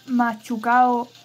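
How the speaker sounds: slowly sounding out a name; careful syllable-by-syllable reading. Real, not acted. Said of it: "Mucha-, Mu".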